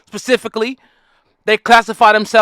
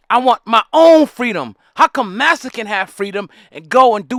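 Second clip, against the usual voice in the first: louder, impassioned plea for freedom; freedom-seeking slave; 4 dB louder than usual. Retold or imitated. A slave protesting to the others, loud and fed up. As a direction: demand freedom with growing heat. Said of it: "the other people's like".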